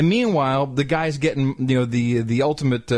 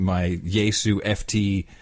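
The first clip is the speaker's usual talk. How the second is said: normal talking voice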